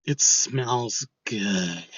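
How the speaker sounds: very slow, drawn-out creepy murmur; quiet, lighter voice. Retold or imitated. Stranger outside the stall to its occupant, slow creepy voice. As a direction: savour each word like a bathroom creep. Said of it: "quietly say".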